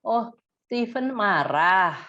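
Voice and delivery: slow clear naming "Steven marah"; labeling emotion. Shown as a demonstration. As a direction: spell out the feeling slowly. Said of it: "Ini bukannya dia minta apa".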